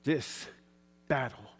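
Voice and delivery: whispered and slow, low and intense; preacher whispering a vow against the storm; defiant whisper. Real, not acted. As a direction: claim it quietly, eye to eye with the storm. Defiant words to the rain.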